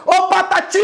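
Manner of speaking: high hail, final "ti" held; calling out. Shown as a demonstration. Teacher showing which syllable stands out, calling out. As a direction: call "Patati" as if across the street. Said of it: "demora mais tempo sendo pronunciado".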